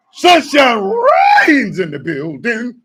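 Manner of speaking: drawn-out hype shout, slow; stretched-out shout-out to a viewer; hype announcer shout-out. Acted. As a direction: announce the arrival like a hype man.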